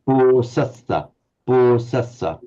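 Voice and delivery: "bo sasa" with a full long o; slow "bo sasa", first vowel held long; long o in posasa. Shown as a demonstration. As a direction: stretch the o in "bo sasa". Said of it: "there's always an o".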